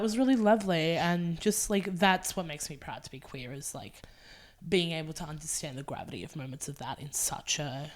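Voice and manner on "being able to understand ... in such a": softer, hushed and intimate; whispered. Real, not acted. Sharing what makes her proud to be queer, whispered. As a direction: let it drop to a whisper. Tender point about queer pride.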